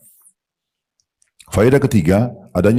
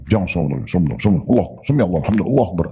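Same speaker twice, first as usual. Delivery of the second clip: mock rushed prayer; faster than usual. Shown as a demonstration. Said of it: "Sholat apa ini?".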